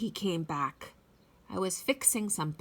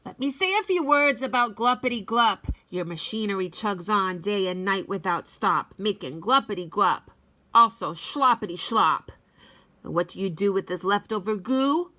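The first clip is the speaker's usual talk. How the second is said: somewhat louder scolding; mildly irate Lorax; 3 dB louder than usual. Acted. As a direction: lay into him, dander up. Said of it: "his dander was up".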